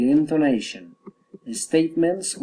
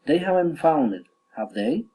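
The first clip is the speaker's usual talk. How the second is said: tag "have they" swings up; statement, then a climbing "have they"; rising tag question. Shown as a demonstration. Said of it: "Falling or rising intonation".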